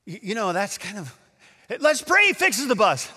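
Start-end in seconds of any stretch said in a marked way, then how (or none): 1.8-3.1 high, louder mocking echo; incredulous mockery. Doubter laughing at the pastor's prayer idea, mocking. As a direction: parrot it high, about to burst out laughing.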